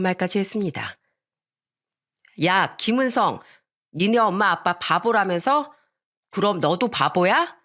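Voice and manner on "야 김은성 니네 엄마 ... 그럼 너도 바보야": drawn-out teasing jeer; mock like a neighbourhood kid; lightly acted schoolyard taunt. Boy taunts narrator in story.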